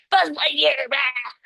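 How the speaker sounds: lightly voiced little boy playing; a hint of a toddler's toy-battle cry; grandson. Teacher imitates her grandson's play shout, lightly. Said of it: "He talks like that all the time".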